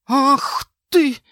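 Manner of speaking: high, loud angry roar; enraged cry. Acted. Kicked husband roars at his wife, loud angry cry. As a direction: roar in fury. Bill knocked off bed.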